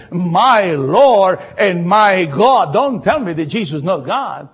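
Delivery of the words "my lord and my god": slow, drawn-out awed cry; Thomas's cry. Acted. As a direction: let each word land slowly, in awe. Preacher quoting Thomas dramatically.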